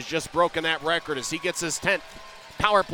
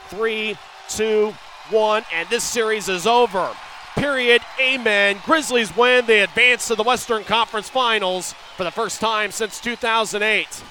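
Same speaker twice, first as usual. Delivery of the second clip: victory call; 5 semitones higher, 3 dB louder than usual. Real, not acted. Series-winning countdown call.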